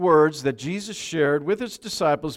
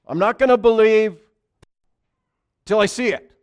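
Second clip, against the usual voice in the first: doubting Thomas; 9 semitones higher, 10 dB louder than usual. Acted. Thomas doubting, voiced quote.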